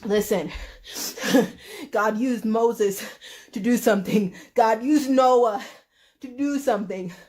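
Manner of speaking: a hint of a preacher; lightly voiced Lois Lane. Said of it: "Lois Lane was like".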